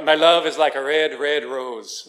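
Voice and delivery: a rough attempt at a Scottish accent; hammed-up Scottish accent. Shown as a demonstration. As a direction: do a bad Scottish accent, leprechaun-like. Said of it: "I was gonna try to do a Scottish accent".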